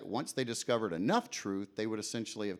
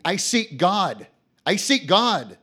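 loud, slow, high desperate cry; I seek God, shouted high and loud; calling out; 9 semitones higher, 13 dB louder, slower than usual. Acted. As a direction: call out like a madman searching. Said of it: "calling out unceasingly".

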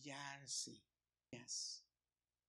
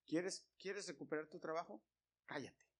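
much softer, urgent hush; hushed scolding; 7 dB quieter than usual. Retold or imitated. Speaker hushing his coworker in front of the boss, softer urgent scolding. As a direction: hiss him quiet under your breath.

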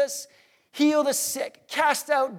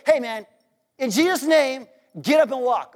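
brisk, casual mock command; offhand command; 3 semitones higher, 3 dB louder than usual. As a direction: toss it off in one quick run. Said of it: "he doesn't just say".

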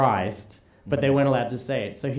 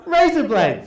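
broad Aussie razor blades, raised; Australian accent; 6 semitones higher, 4 dB louder, slower than usual. Shown as a demonstration. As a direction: say razor blades like rise up lights. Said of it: "Put 'em together".

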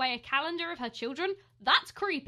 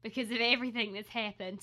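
slipping Aussie imitation; failing Australian accent; 4 dB louder than usual. Host discussing the news, failing Australian accent. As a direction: attempt an Australian accent and lose it. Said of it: "This is not Australian".

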